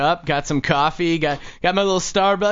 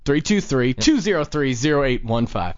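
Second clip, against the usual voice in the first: number repeated a little slower; 4 semitones lower than usual. Real, not acted. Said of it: "It's a little slower".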